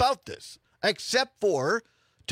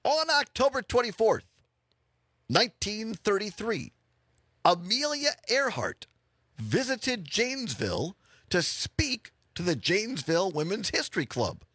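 lightly showy announcer read, spaced with pauses; radio fun-fact read; 5 semitones higher than usual. Acted. Host reads the day's Wisconsin fun fact, announcer style. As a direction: present the fact phrase by phrase.

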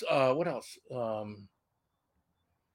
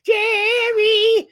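loud high shout of a name; 13 dB louder than usual. Retold or imitated. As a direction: yell it out across the room. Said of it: "the first thing out of my mouth".

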